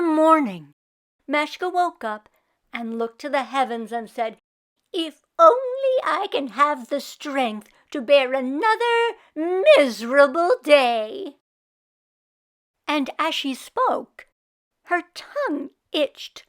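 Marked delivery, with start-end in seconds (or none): 4.9-11.4 long-suffering sigh. Acted. Meshka sighs to the heavens.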